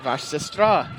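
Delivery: Vash sestra said in a Russian accent; Russian phrase. Shown as a demonstration. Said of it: "Is that sister in, in, uh, Russian?".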